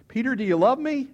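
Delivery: high, loud, pressing question; insistent questioning. Acted. Jesus asking Peter a second time before the others, insistent. Jesus asks again, publicly.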